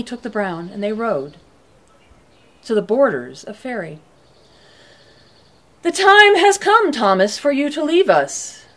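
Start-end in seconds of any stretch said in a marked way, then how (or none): 5.8-8.6 queen's command. Acted. Queen sends Thomas away.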